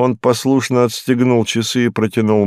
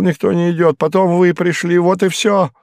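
higher, rattled voice of a frightened man; shaken Hinkus; 8 semitones higher than usual. Acted. Hinkus telling the detective he woke under a table, rattled and higher. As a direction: blurt it out like someone still in shock. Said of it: "narrator voices Hinkus".

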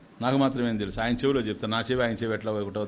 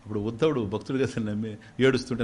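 normal talking voice

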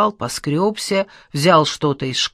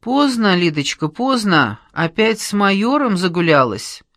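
teasing reproach; 3 semitones higher, 3 dB louder than usual. Acted. Roommate teasing Лида coming back late.

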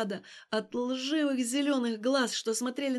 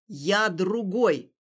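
forceful declaration; 3 semitones lower, 5 dB louder, much slower than usual. Acted. Stas yanking Alina close.

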